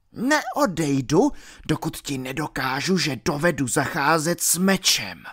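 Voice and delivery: villain refusing to back down from the friar; stubborn villain. Acted. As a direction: dig in and refuse.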